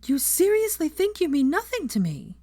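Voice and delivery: voice shaking slightly. A narrator's reading. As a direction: hold back tears as you ask. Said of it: "her voice shaking slightly".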